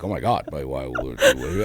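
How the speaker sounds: gasping, squeaking mock dismay; mock shocked commenter. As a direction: play a scandalised fan crying out. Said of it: "They're like".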